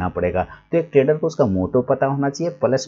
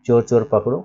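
चोर चोर पकड़ो as one phrase, stopping at पकड़ो; comma after पकड़ो. Shown as a demonstration. Teacher shows where the comma goes, stopping after पकड़ो. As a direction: stop right after पकड़ो, leaving मत for later. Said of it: "कोमा लगा देंगे".

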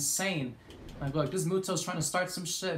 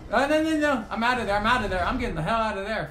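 panicked retreat; 2 semitones higher, 3 dB louder, faster than usual. Real, not acted. Fleeing enemy.

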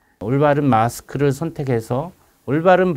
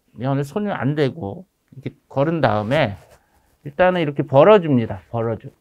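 muffled behind surgical mask; speaking through a face mask. Real, not acted. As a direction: mask covering mouth and nose. Seen 0: Mask covers nose and mouth in every labelled frame; absent in R frames.

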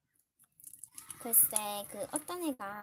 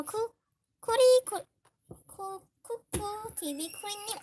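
squealing high, slow stammered greeting; excited shout-out; 9 semitones higher, 7 dB louder, much slower than usual. Real, not acted. Girl spots a favourite viewer in chat, squealing high with delight. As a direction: gush over the viewer's name.

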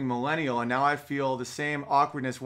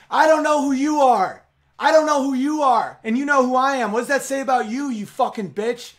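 angry shout; 8 semitones higher, 5 dB louder than usual. Retold or imitated. Retold confrontation in the woods.

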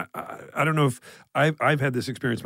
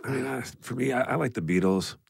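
ordinary talk, nothing marked

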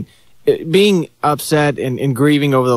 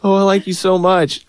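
mock creepy cousin; 7 semitones higher than usual.

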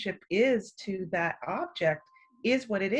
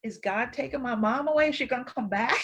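lightly voiced worried child, higher pitched; a hint of a little girl asking anxiously; 4 semitones higher, faster than usual. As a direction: ask it like a puzzled child, pitched up. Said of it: "as a little girl".

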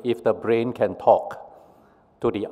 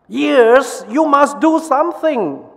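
very high pleading call; urgent brain; 14 semitones higher, 4 dB louder than usual. Acted. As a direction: beg the ears, pitched way up. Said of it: "says the brain to the ears".

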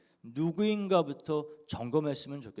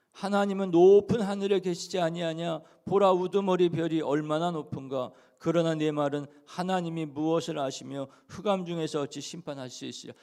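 scripture reading; 2 semitones higher, 4 dB louder than usual. Acted. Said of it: "이십이 장 십이 절 한번 보시기".

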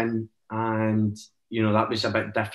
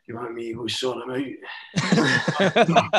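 slow, lightly voiced ailing granddad; 2 semitones higher, much slower than usual. Sick granddad offers to step in for his grandson, slow and lightly imitated. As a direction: drag it out a little like a poorly granddad. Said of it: "he's got cancer, and he's like".

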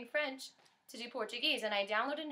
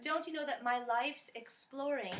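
a light faux British pop-star lilt; a pop star with bad English; 4 dB quieter than usual. Singer reciting her lyric in a mild pop-star-style accent. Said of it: "talking like a pop star with bad English".

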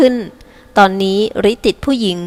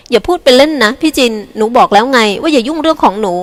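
tense; 3 semitones higher than usual. Acted. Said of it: "จริกาพูดเสียงเครียด".

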